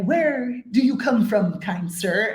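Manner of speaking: slow, lightly put-on South African accent; a dreamy, slow South African gentleman. Child host imitating a South African man, slow South African accent. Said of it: "I heard a South African guy".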